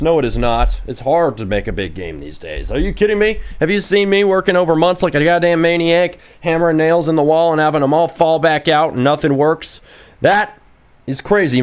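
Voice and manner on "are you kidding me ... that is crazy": high-pitched, incredulous protest; indignant rant. Real, not acted. Streamer protests to chat that making games is hard, indignant. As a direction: rant in disbelief at being doubted. Ranting that game-making is not easy.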